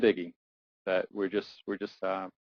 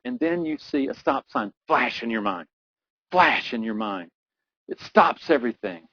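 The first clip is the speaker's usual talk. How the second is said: building intensity; 2 semitones higher than usual. Acted. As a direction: push it up step by step to a tense peak. Scripted fear builds to peak.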